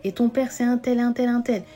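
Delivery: mother angrily reassuring her daughter she is wanted; angry mother. Acted. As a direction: scold her daughter hard, refusing her words. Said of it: "elle s'énervait, elle lui a dit".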